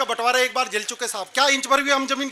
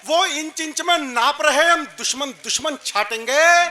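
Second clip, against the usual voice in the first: insistent heroic declamation; poetry recitation; slower than usual. Acted. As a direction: recite the challenge to a crowd. Recites verse on stage. (ओजपूर्ण काव्य पाठ)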